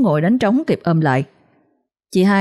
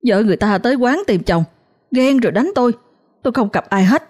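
indignant protest; 5 semitones higher than usual. Acted. Heated defence continues.

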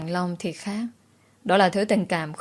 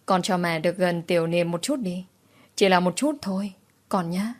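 a touch of tears while begging; choked voice. Acted. Grandmother begs to be near her grandson, lightly choked. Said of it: "giọng nghẹn ngào".

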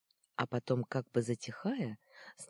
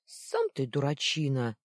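offended retort; 5 dB louder than usual. Acted. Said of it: "раздался звонкий звук затрещины".

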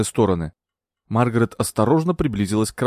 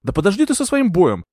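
high, sharp exclamation; angry outburst; 9 semitones higher, 3 dB louder than usual. A narrator's reading. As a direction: cut him off in anger. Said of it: "гневно вскричала Маргарет".

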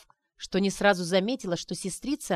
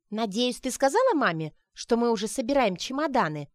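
забеспокоилась; 4 semitones higher, 3 dB louder than usual. Acted. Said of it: "забеспокоилась Сонечка".

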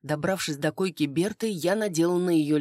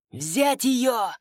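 shouted order; 7 semitones higher than usual. Acted. The father orders his mercenaries to seize her, shouting high. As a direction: bark it at the guards. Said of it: "вскричал он".

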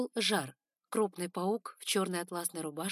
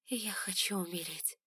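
whispered despair. Acted. Hurt girl answering weakly.

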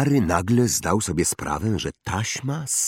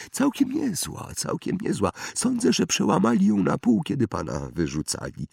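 stern question; 10 semitones higher than usual. A narrator's reading. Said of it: "zapytał Oliwander surowym tonem".

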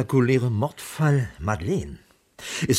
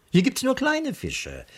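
sudden high, slow sarcastic sigh; detective scoffs at the petty cases, sarcastic; mock lament; 13 semitones higher than usual. Detective mocking small-town cases.

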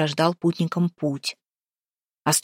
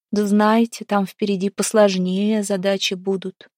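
high hollow spirit voice; echoing ethereal energy being; 4 semitones higher than usual. A narrator's reading. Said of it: "тихим и притом гулким голосом".

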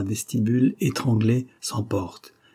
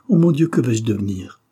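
anguished cry; 5 dB louder than usual. Acted. Heroine despairing in storm.

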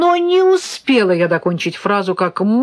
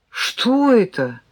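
puzzled; 5 semitones higher, slower than usual. A narrator's reading. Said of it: "ещё больше изумился парень".

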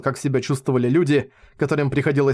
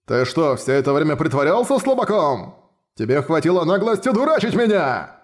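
indignant outrage. Acted. Minotaur realises he was fooled.

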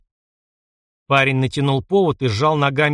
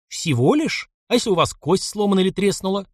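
menacing sarcasm; 6 semitones higher than usual. Acted. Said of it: "с грозной ехидцей".

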